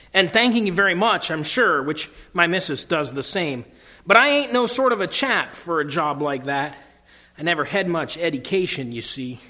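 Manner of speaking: lightly acted Cockney working man; a touch of humble Cockney, protesting politely; Cockney cabbie. Cabbie declining Aslan's offer of kingship, light humble Cockney. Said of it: "quick voice of a Cockney".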